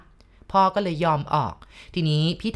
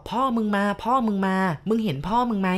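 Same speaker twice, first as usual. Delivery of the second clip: frightened cry; 3 semitones higher than usual. Retold or imitated. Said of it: "กรี๊ดพร้อมกันเลยนะ พร้อมกับพูดเสียงดัง".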